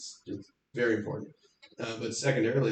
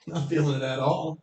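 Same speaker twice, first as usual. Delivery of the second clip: higher, laughing mock hurt; mock dismay; 4 semitones higher, 3 dB louder than usual. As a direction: feign wounded surprise. Mocking audience turning on him.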